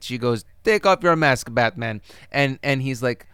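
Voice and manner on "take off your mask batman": hammed-up Russian accent; imitating a film seductress's Russian accent; thick Russian accent. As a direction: put on a shoddy Russian accent. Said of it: "in this thick accent".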